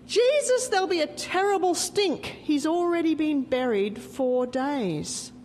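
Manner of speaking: put-on high, pleading older sister's protest; a lightly voiced sister objecting, rising high on Jesus. Martha warning Jesus about the tomb, high protest.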